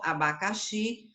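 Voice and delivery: abacaxi said slowly, final syllable stressed; abacaxi, leaning on its final syllable. Shown as a demonstration. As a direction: draw out abacaxi toward the last xi. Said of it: "que é o xi".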